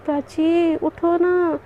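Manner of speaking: slow, stretched wake-up call; lingering, pleading call; drawn-out coaxing. Acted. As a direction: coax a sleeper, dragging out the vowels. Coaxing sleeping wife to wake.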